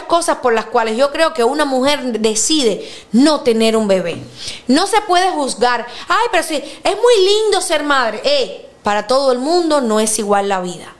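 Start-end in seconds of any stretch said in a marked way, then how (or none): 6.1-8.2 high, slow mock gushing; mock sweet cliché. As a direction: parody the sugary motherhood line. Mocking what others say. (parodia empalagosa)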